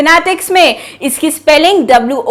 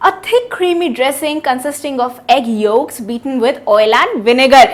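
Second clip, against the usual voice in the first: slow definition reading; 4 semitones lower, 3 dB quieter, much slower than usual. Shown as a demonstration. Teacher reading definition aloud to students, slowly. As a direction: read slowly and softer, word by word. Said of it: "इसका meaning क्या है".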